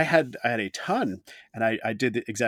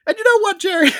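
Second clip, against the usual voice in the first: "And you know what, Jerry?" in a big high announcer swoop; segue announcer voice; 12 dB louder, faster than usual. Shown as a demonstration. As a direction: belt the "you know what" much higher and louder. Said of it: "I almost did it without the right tone".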